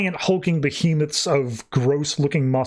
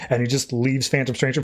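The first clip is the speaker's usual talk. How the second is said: ordinary talk, nothing marked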